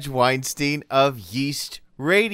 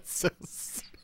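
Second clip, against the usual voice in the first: whispered; 12 dB quieter than usual. Pretend. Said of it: "that sounds serious".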